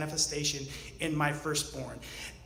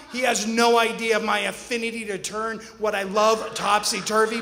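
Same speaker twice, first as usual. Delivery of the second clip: ordinary delivery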